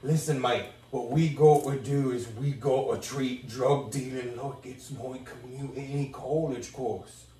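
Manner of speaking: slow, lightly put-on London accent; a London-accented gangster, slow and measured; Idris Elba impression. Playing Stringer to Avon in a mock London accent. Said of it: "my Idris Elba impression".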